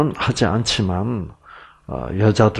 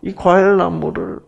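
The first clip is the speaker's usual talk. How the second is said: put-on sly serpent in Gyeongsang accent; 6 semitones higher than usual. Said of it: "경상도 사투리로 제가 각색을 할게요".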